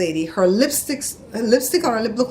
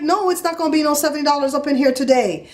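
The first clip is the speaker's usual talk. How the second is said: high, defiant retold refusal; top of register; 6 semitones higher than usual. Customer refusing the seventy dollar charge, high and heated. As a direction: refuse hotly, pitched up high. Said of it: "I was up at the top of my register".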